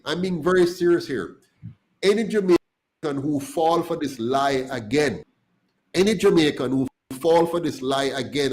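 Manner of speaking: a stern impassioned warning; getting heated. Real, not acted. Warning voters against party lies, heated. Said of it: "Sorry, I'm getting heated now".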